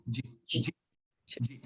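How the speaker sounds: "G" said low and soft as a quick "ji"; short unstressed G. Shown as a demonstration. Teacher isolates the first sound, soft low "G". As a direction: drop "G" to a soft, low dzhi. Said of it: "D and Z and I is G".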